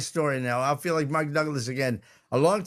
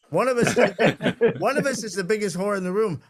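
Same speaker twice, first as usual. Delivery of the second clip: laughing mid-line, a bit higher and louder; laughing through punchline; 4 semitones higher, 4 dB louder than usual. Real, not acted. Comic telling the crowd the punchline, laughing. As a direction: crack up while landing the joke.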